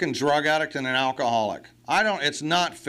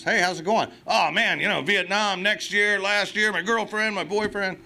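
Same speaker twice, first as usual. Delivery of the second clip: mocking a rambling newcomer; 5 semitones higher than usual. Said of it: "Ask anybody that's drinking".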